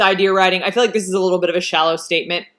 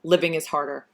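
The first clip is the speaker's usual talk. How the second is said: George Washington; 3 semitones lower than usual. Retold or imitated. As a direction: quote it like a grave old mentor. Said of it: "as George Washington in Hamilton would say".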